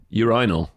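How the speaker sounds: "Urinal" said as a single demonstration word; urinal pronounced on request. Shown as a demonstration. Co-host saying the word for podcast listeners, pronunciation on show. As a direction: say "Urinal" alone, on cue. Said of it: "say the word".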